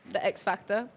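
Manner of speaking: put-on softly British-accented name of the show. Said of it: "Yeah, British".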